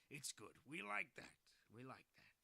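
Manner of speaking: half-hearted presidential parody; Trump. Acted. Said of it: "I was trying to do a Trump voice".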